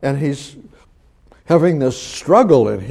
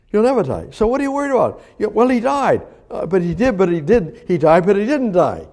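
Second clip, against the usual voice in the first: excited preaching; 6 semitones higher, faster than usual. Real, not acted.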